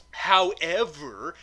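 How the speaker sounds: HOWEVER drawn out slowly; stalling. Real, not acted. Reviewer losing the thread of the review, stretching "however" slowly. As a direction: stretch each syllable of "however" while stalling.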